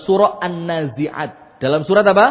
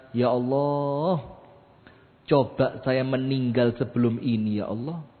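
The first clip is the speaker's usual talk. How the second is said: a touch of lament; 5 semitones lower, 6 dB quieter than usual. Acted. Voices Maryam's despairing plea.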